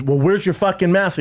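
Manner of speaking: insist, acting out an angry rider; retold scolding yell. Woman on horseback to cyclist, mock scolding. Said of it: "yelling at me".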